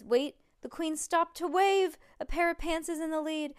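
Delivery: high, loud announcer's surprise; thrilled play-by-play; excited race commentary. A narrator's reading. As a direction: call a sudden change of leader. Sudden lead change in race.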